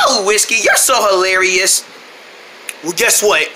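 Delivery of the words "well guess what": gruff gatekeeper. Acted. Gatekeeper refuses them again.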